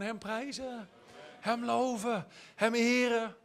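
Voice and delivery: soft, lifted, reverent tone; gentle praise. Shown as a demonstration. Answering what better you could do, gentle reverent praise.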